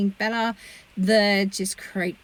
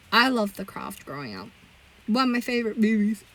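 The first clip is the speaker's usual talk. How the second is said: through a yawn; sleepy yawning voice. Real, not acted. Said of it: "I'm just yawning my head off right now".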